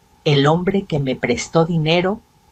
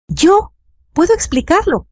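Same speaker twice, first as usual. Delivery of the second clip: high, loud, breathless panic; panicked denial; 4 dB louder than usual. Acted. Paola, caught by Mateo, panics in a high loud voice. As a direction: blurt it out like she's been caught. Cornered woman caught lying.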